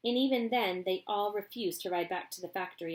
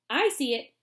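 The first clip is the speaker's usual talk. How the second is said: eager louder cry; cried; 5 semitones higher, 8 dB louder than usual. Acted. Wonka spots Charlie's house, excited. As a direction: spot it gladly. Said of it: "cried Mister Wonka".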